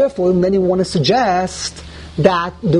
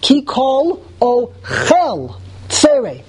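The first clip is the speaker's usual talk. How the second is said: slow, higher "Ki kol ochel", "ochel" as o-KHEL; stress on last syllable; 4 semitones higher, slower than usual. Shown as a demonstration. Teacher proving the vowel, slow end-stressed "ochel". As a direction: measure out "Ki kol ochel", hitting "chel". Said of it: "You put the emphasis on the end".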